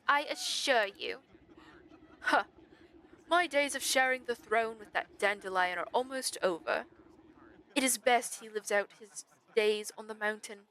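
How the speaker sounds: lightly voiced monarch dismissing a rival; haughty royal stag. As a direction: regal character voice, disdainful.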